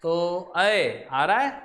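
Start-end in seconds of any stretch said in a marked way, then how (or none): 0.6-1.1 अय drawn out as a clear two-part vowel; vowel pronunciation. Shown as a demonstration. Teacher shows students how to read it, vowel pronunciation. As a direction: say अय as a gliding "a-e". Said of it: "इसको भी क्या पढ़ते हैं".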